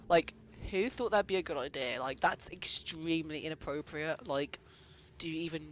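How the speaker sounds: under-the-breath aside; whispered aside. Real, not acted. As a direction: whisper it to yourself. Muttered aside to herself.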